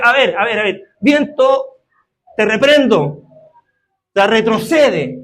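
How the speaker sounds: stern commanding shout; commanding rebuke. Acted. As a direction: order the wind back like a master. Preacher acts Jesus rebuking wind.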